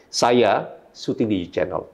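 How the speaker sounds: "Saya" set apart by a pause, slow sentence; stress on SAYA. Shown as a demonstration. Trainer demonstrating emphasis to Bray, stress on "Saya". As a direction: punch "Saya", then pause before the rest.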